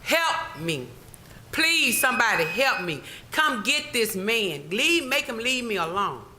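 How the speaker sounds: mock calling out for help, half-strength; retold yelling for help. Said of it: "I started yelling and screaming to the top of my lungs".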